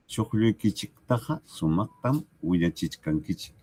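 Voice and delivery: Chuqlluykichiktaqa with a hard -chik ending; teacher repeats the central form for the class; central pronunciation. Shown as a demonstration. Pronunciación central. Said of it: "es un tema de pronunciación".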